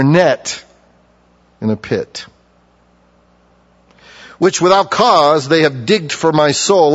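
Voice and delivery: measured, solemn reading of the psalm; scripture reading. Acted. Preacher reading a psalm aloud to the congregation, solemn.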